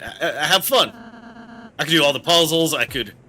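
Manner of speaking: lightly voiced anxious, stammering plea; Ralsei pleading. Ralsei begs Susie to let him go ahead, anxiously pleading. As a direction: beg gently, offering to carry it all.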